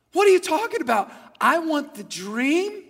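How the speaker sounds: loud, high-pitched outburst; furious. Acted. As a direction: demand it like an enraged king. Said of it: "He's furious".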